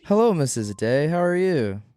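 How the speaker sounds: sweet call-center hello; customer service voice. Pretend. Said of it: "go in a higher pitched voice".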